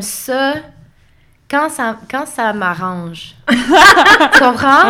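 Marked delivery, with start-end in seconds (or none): 3.4-4.9 drawn-out laughing question. Real, not acted. Laughing after self-mocking admission.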